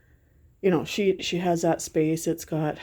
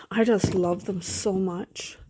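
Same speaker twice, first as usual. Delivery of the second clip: slow, breathy whisper through tears; whispering with love for her sons, slow; weepy whisper; slower than usual. Real, not acted. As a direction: barely get it out, overcome. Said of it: "I'm getting all weepy".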